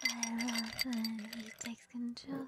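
slow secretive whisper to herself; whispering aside. Acted. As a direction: murmur it as a hidden confession.

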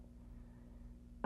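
very soft breathy chuckle; quiet chuckle. Acted. Quietly amused.

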